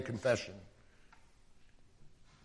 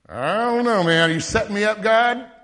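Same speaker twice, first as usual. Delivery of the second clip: raised, incredulous pitch, asking if it's a setup; higher, suspicious "are you kidding me"; disbelieving; 7 semitones higher, 6 dB louder than usual. Retold or imitated. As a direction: voice Moses's wary disbelief at God. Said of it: "He's, he's not believing it".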